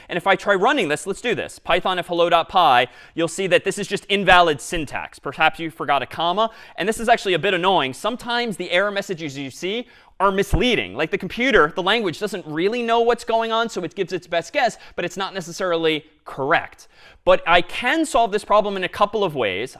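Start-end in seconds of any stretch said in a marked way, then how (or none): none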